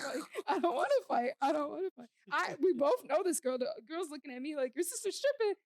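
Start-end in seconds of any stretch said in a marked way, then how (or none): 0.5-2.1 higher, anxious pleading; begging nobody to swing; mock pleading. Scared kid in the back seat, pleading. 4.8-5.5 high mocking accusation; throwing a jab; girl's accusation. Girl accusing her, high and mocking.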